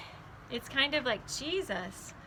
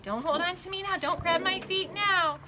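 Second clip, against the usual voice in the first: gentle Jesus; 8 semitones higher, 5 dB louder than usual. Acted. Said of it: "he said".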